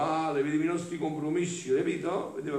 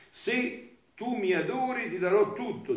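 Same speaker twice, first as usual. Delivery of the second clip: tempting Satan; 8 semitones higher than usual. Retold or imitated. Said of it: "diceva Satana".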